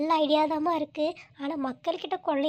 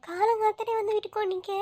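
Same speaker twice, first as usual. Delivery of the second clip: a startled, louder "என்னம்மா"; surprised; 3 semitones higher, 3 dB louder than usual. Acted. Neighbour sees the girl crying at her door, surprised.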